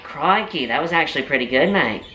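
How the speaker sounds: put-on quick, impressed exclamation in an Australian accent; amazed Aussie. Australian interviewer freaking out at the kid's accent, mock-amazed Aussie. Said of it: "he started to freak out".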